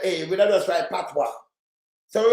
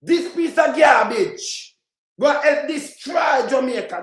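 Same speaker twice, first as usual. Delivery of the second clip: slow angry shout; 5 semitones higher, slower than usual. Real, not acted. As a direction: drag out each word with contempt. Condemning a politician's plan.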